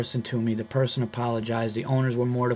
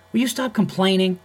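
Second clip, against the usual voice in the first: irritated scolding; 5 semitones higher, 3 dB louder than usual. Retold or imitated. Employee scolding comedian, retold.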